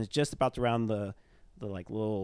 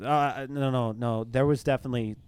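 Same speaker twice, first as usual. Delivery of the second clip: raised, stammering protest; flustered insistence; 2 semitones higher, 5 dB louder than usual. Acted. Shaken accountant contradicts the museum director, flustered protest. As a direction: push back in repeated, halting bursts. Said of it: "she goes".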